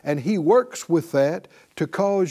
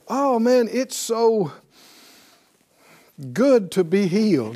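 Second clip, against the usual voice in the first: mock switch to joy; 2 semitones higher than usual. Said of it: "you can change in mid-sentence".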